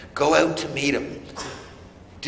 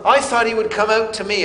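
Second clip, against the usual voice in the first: indignant Naaman; 7 semitones higher, 3 dB louder, faster than usual. Retold or imitated. Naaman repeating expectations.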